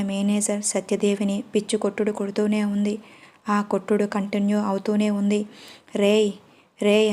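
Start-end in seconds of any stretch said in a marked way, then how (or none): 6.0-7.1 loud sharp calls; shouting. A narrator's reading. Manager yelling at the fighters to stop, loud. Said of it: "అని అరుస్తున్నాడు సత్యదేవ్".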